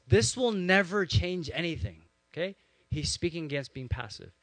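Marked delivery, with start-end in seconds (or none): 0.1-2.0 loud, higher-pitched outburst of frustration; imitated rant. Pastor voicing his friend against being passive, loud imitated rant. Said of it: "so his rant was".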